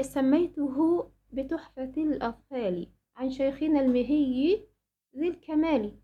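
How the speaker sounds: slowish measured verse reading; lightly chanted verse; poem recitation. Acted. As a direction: read the verse line carefully.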